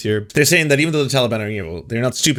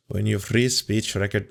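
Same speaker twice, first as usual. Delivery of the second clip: badly faked Scottish accent; terrible Scottish accent. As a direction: lightly put on a bad Scottish accent. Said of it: "retire my Scottish accent, my terrible, terrible Scottish accent".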